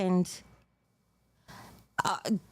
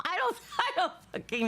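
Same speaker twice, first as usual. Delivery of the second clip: helpless laughter; 9 semitones higher, faster than usual. Real, not acted. Laughing despite a sad message.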